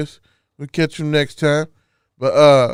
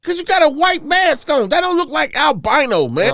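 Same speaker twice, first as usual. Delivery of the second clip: excited teasing; 10 semitones higher, 5 dB louder than usual. Acted. Teasing shout.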